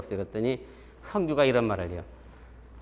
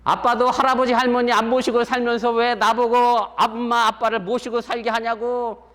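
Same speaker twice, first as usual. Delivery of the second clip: put-on high, louder whiny sobbing child; imitating a crying boy; 8 semitones higher, 5 dB louder than usual. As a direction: act out a boy protesting through tears. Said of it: "울면서".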